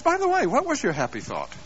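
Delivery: calm question. Retold or imitated. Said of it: "wife just very calmly says".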